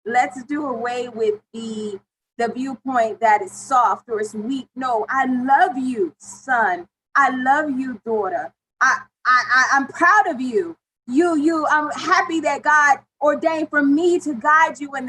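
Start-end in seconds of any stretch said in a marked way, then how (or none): 5.1-15.1 sincere declaration. Shown as a demonstration. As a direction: declare it with full heart. Modeling words a parent should say.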